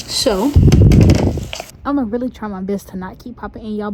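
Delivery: breathy, close to the mic; audible breathing near the mic; shallow breathing. Real, not acted. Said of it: "sorry about the breathing".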